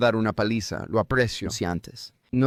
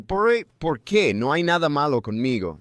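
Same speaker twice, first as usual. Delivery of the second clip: mock indignant why; 4 semitones higher than usual. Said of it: "Y yo estaba como".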